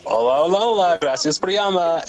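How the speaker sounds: lightly put-on Spanish greeting; Spanish phone greeting. Worker greeting the last caller as a prank, put-on Spanish. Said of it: "I was just responding in Spanish".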